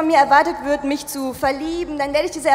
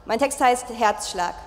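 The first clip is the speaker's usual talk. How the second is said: ordinary talk, nothing marked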